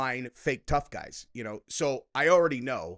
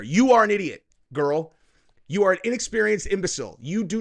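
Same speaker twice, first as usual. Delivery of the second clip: angry outburst; 4 semitones higher, 5 dB louder than usual. Real, not acted. Ranting insults at TikTok woman.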